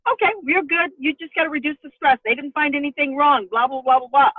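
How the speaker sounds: high, breezy mock all-clear; retold, singsong brush-off; dismissive reassurance. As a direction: rattle off the reassurance as if it hardly counts. Breezy retelling of medical all-clear.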